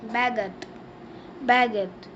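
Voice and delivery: "baguette" as "ba-GET" with a falling end; teacher modelling "baguette"; French pronunciation. Shown as a demonstration. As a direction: say "baguette" the French way, stress on the last syllable. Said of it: "We say French bread in French".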